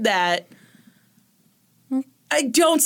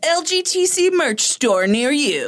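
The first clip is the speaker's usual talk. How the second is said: movie trailer voice; 3 semitones higher than usual. Acted. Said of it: "That's my trailer voice".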